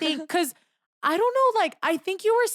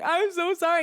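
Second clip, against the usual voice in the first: higher-pitched mock sobbed apology; retold tearful apology; 6 semitones higher than usual. Apologizing to her friend while walking back, mock tearful. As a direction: imitate apologizing through tears. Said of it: "like, sobbing, crying".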